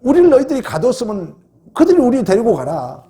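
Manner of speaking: a hint of a wronged apostle standing his ground; bold protest. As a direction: speak up for your rights as a Roman citizen. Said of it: "당당한 거예요".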